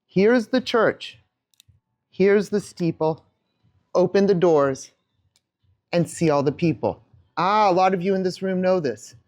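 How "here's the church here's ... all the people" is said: slow sing-song rhyme; nursery rhyme. Shown as a demonstration. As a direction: recite it slowly while showing the hands. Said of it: "watch my hands as I do this".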